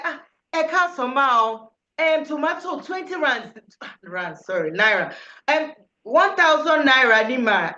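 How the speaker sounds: lightly voiced Lagos market trader, casual haggling; market seller. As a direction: chat like a local tomato seller. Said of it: "you're going to be like".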